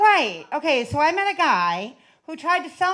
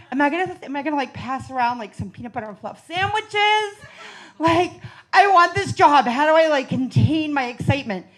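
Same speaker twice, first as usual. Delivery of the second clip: excited; 3 semitones higher than usual. Retold or imitated. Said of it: "like, all excited".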